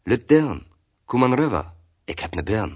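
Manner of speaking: friendly beckoning call, voice lifted; old man calling out. Acted. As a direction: call her over in dialect, lightly acted. Old man calls girl over.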